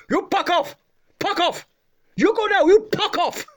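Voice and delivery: put-on very high Asian-accented outburst; Asian man's accent. Garage owner throwing customer out, high imitated Asian accent. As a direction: mimic the little Asian owner, Fs turned to Ps. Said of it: "the Asian bloke couldn't say his Fs".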